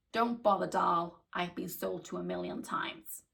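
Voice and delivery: imitated American client, brushing off the pitch; American accent. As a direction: do a blunt American customer. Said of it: "in her American accent".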